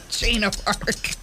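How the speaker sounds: slow, laughing repeat of a wrong answer; amused disbelief. Real, not acted. Host teases a caller over a wrong answer, laughing. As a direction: draw it out, breaking into laughter.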